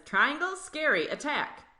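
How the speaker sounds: high, startled little cell; scared blood cell. Acted. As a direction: squeak it out in mock fright. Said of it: "and it says".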